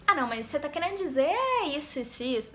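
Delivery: quick, challenging demand for clarification; confrontational questioning. Shown as a demonstration. Coach showing how questioning can start a fight, confrontational. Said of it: "depende muito sua entonação".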